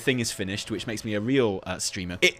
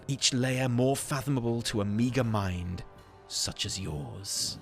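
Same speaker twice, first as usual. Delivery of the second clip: theatrical lore narration. Acted. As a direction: narrate grandly, then drop to a knowing hush. Reads lore in character.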